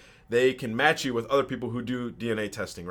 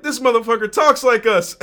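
high, loud laughing amazement; amazed shout; 12 semitones higher, 11 dB louder than usual. Retold or imitated. Brothers hearing how he talks, loud high amazed shout. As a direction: crow it with delighted disbelief.

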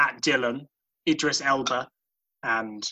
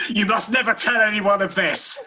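dramatic secrecy; 7 semitones higher, 4 dB louder than usual. Acted. Drake voiced swearing secrecy.

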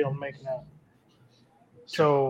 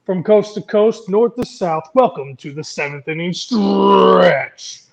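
booming ringmaster announcement; grand announcer intro, drawn out; 7 dB louder than usual. Acted. Announcer opening the podcast.

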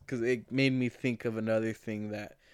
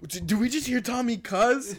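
mock surprise; 10 semitones higher, 4 dB louder than usual. Retold surprised question.

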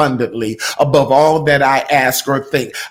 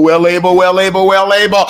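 louder, rising proclamation of faith; loud declaration; 3 semitones higher, 7 dB louder, faster than usual. Shown as a demonstration. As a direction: belt it out boldly. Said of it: "just say it in your spirit".

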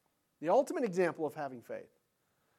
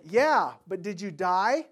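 snarky shirt slogan; 6 dB louder, slower than usual. Retold or imitated. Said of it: "wearing a shirt... it said".

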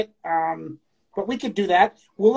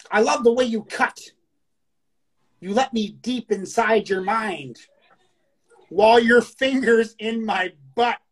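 poem reading. Acted. Reading a listener's erotic poem to the show, measured recital. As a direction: read it out line by line, lingering.

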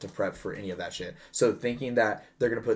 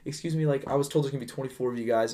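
polite but firm service tone; customer service voice; 4 semitones higher than usual. Retold or imitated. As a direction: sweetly deliver the bad news. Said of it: "customer service voice".

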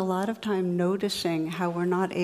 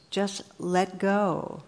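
calm God voice; much slower than usual. Retold or imitated. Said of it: "And God says".

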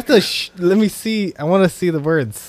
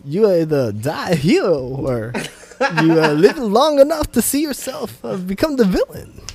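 Christopher Walken impression; 3 semitones higher than usual. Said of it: "Christopher Walken?".

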